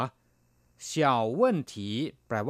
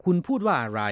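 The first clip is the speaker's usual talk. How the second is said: questioning demo; 6 semitones higher, 3 dB louder than usual. Shown as a demonstration. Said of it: "你说什么？".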